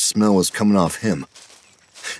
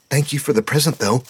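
put-on higher, eager boy voice; young boy Petey; 8 semitones higher than usual. A narrator's reading. Petey apologizing to his scoutmaster, higher boyish voice. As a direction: voice the kid, breathless and sorry.

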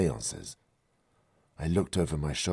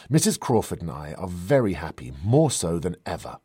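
defensive; 6 dB louder than usual. Acted. Defensive after snapping at her.

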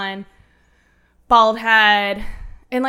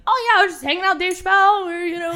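high, fast, breezy brag; breezy mock brag; 9 semitones higher, 4 dB louder, faster than usual. Daughter to her mom, high fast brag. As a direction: toss it off like it's nothing.

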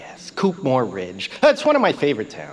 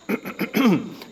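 throat clear; 7 semitones higher than usual. Real, not acted. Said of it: "Just listen".

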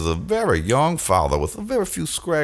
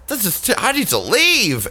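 imitating scared mom; 11 semitones higher than usual. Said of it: "And my mom said".

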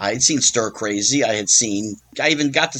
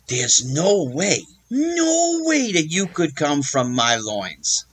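sheriff impression; 3 semitones higher than usual. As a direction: lightly put on, menacing Southern sheriff. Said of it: "the sheriff thing".

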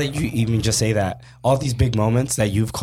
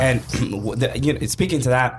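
throat catching, voice straining; scratchy throat. Real, not acted. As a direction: talk through a frog in the throat. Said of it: "You're having a hard time over there".

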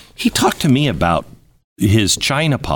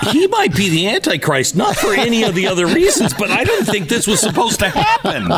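laughing through the words, pitched up; half-laughing joke about Trump; 10 semitones higher than usual. Real, not acted. Host laughing while joking about the Antichrist.

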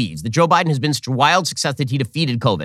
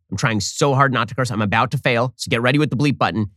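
normal talking voice

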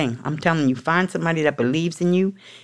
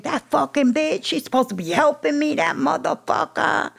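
retold rage; 10 semitones higher than usual. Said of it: "I was rageful".

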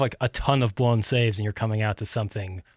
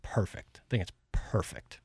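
breathy near-whisper, much softer; hushed verdict; 2 semitones lower, 9 dB quieter than usual. Real, not acted. Praising the walk-up song, softly whispered. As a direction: let it fall to a reverent hush.

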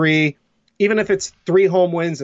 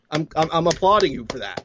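sarcastic. Real, not acted.

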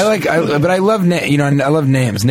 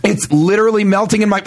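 higher, swooning over the steak; rapturous foodie; 9 semitones higher than usual. Acted. Man at dinner gushing over his steak, swooning. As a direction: gush about the melting steak.

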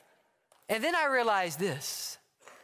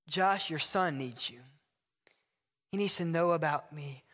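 lower, gentle divine correction; calm voice of God; 4 semitones lower than usual. Acted. God tells Josh to go to his neighbor, calm and lower. Acted dialogue, God answering.

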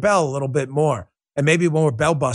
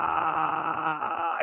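vocal fry; 9 dB quieter than usual. Shown as a demonstration. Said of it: "the Queen of Vocal Fry".

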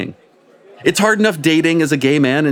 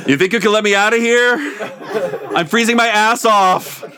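lightly voiced butt, higher and quick; winged butt voice; 8 semitones higher than usual. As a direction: play the talking butt with a laugh. Butt character voiced in story.

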